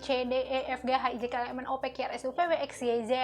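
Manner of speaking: mildly hammed-up demanding wife. Wife lists endless needs to husband, demanding. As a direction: reel off the demands insistently. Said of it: "istri terlalu banyak menuntut".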